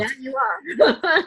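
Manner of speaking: slow and high-pitched fervent agreement; emphatic agreement. Real, not acted. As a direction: stretch it out, high and heartfelt.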